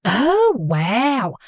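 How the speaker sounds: put-on light Southern-belle accent, apologetic; a hint of a gushing Southern mom accent. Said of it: "speaking in a thick Southern accent".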